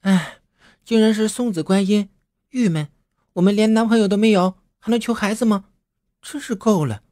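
put-on high young woman's voice, fed up and whiny; a girl grumbling, clearly let down; disgusted. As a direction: complain with a sniff of disgust. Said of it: "一脸嫌弃地说".

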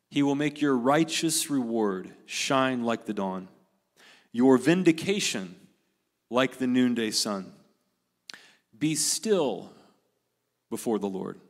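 measured, deliberate Bible reading with pauses; scripture reading. Acted. Pastor reading a passage to the congregation, measured scripture reading. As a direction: read the psalm out, phrase by phrase.

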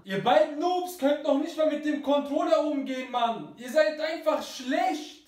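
aggressive. Acted. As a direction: snap at them angrily. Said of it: "Wieso bist du so aggressiv?".

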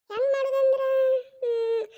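mock tearful whimper; crying. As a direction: fake a little sob to guilt her. Daughter-in-law whimpers over the tea. (ಅಳುಕಿನ ನಾಟಕದ ಧ್ವನಿ)

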